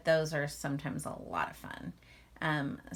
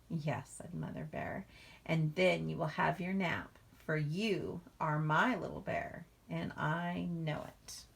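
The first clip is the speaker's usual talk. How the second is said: tender mother. Acted.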